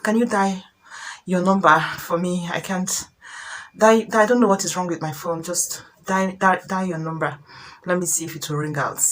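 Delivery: soft, subdued coaxing with small stumbles; husband asking a favour. Acted. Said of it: "husband now asks you".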